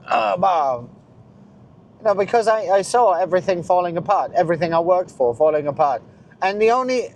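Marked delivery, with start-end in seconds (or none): 0.1-0.8 a light disgusted grunt; mild mock frustrated grunt. Retelling hitting the trash can, mild frustrated grunt. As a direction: grunt as if slamming a lid. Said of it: "hit a trash can ... and went like".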